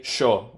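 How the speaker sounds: sho, yo said with a sh sound, Rio Platense style. Shown as a demonstration. Showing the Argentina and Uruguay accent, sho for yo. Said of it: "which is the Rio Platense accent".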